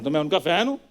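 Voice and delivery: low, matter-of-fact concession; subdued, placating reply; low admission. Acted. Placating guest, first admission.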